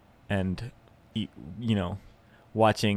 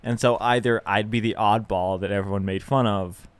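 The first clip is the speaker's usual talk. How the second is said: usual speaking voice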